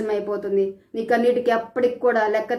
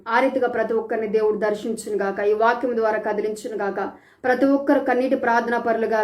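closing prayer. Real, not acted. Preacher blessing the congregation at the sermon's end, calm prayer voice.

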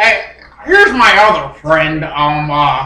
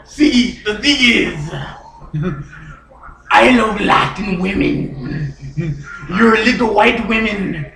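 lightly put-on Cuban accent; 2 semitones lower than usual. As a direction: chat as a Cuban character, accent on. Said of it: "I'm from Cuba".

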